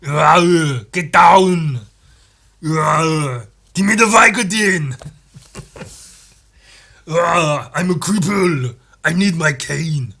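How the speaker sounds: put-on loud Austrian-accented doctor voice; a gruff action hero playing a grumpy doctor; Arnold as House. Austrian-accented House barking at his team, loud. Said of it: "House if it was played by Arnold".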